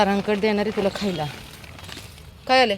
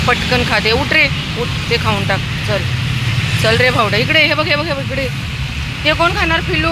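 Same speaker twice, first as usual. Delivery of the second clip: high, louder pet-talk; coaxing pets; 5 semitones higher, 4 dB louder than usual. Real, not acted. Woman coaxing stray dogs to finish leftovers, high and loud. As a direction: keep calling and cajoling the dogs to finish.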